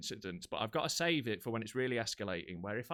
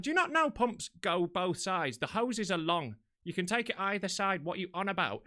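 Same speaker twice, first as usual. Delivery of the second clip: higher-pitched, incredulous explaining; retold exasperation; 5 semitones higher than usual. Driver explains pump hoses to stranger, acted exasperation. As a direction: argue as if stating the obvious. Acting out exasperated reply in row.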